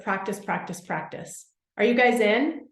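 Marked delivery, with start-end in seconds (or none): 0.0-1.5 practice, practice, practice trailing off into a breathy whisper, much softer; fading whisper. Retold or imitated. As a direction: let the mantra die away to a whisper. Mom's mantra fading out.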